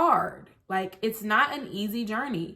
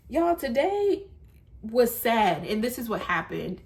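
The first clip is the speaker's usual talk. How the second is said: imitating a creator. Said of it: "come on camera and say".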